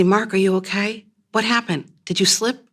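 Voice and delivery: rising, worried calls to a fallen partner; alarmed calling. Acted. Wife calling to fiancé who fell, alarmed and rising. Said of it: "My voice rising with each syllable".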